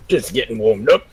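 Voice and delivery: morning voice. Real, not acted. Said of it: "Still got your morning voice?".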